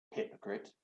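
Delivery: whispered aside insult. Acted. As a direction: hiss it under breath.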